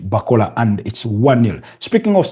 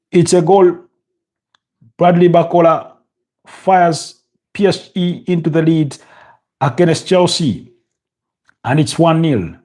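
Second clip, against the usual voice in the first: goal call; 6 semitones higher than usual. Real, not acted. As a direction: shout the goal like a commentator. Live goal call in match commentary.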